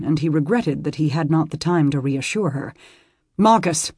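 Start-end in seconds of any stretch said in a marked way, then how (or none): 3.4-3.9 calling out. Acted. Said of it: "he called over his shoulder".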